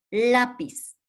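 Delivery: "lápiz" with a high LÁ, dropping on piz; stress on the first syllable. Shown as a demonstration. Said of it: "se le marca a la penúltima sílaba la tilde".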